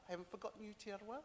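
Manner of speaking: ordinary talk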